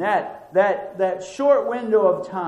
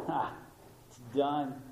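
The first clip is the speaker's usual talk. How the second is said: resigned sigh; 3 semitones lower, 12 dB quieter than usual. Retold or imitated. Onlookers' dismissive view.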